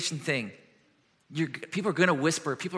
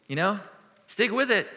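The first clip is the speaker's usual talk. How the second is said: offhand platitude. Retold or imitated. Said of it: "some platitude he can just throw out".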